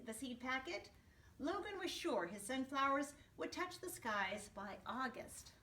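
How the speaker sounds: put-on gentle storybook narration to kids; storyteller voice for young listeners; reading to children. A narrator's reading. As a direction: read it like story time for a class. Reading picture book to class.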